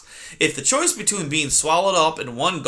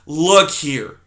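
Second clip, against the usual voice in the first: cranky cry; 6 dB louder than usual. Acted. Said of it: "Aerith cried".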